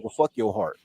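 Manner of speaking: hushed, whispered echo; inner voice whisper. Retold or imitated. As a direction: whisper it like a voice in your head. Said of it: "all I heard in my head was".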